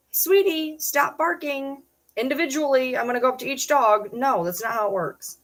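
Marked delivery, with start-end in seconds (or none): 0.1-4.1 mock sweet voice. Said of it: "talking nicely to ten dogs".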